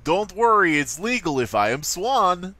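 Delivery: mock Eastern European sweet-talk; lightly sleazy Eastern European accent. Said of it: "acted out by all Eastern European pickup artists".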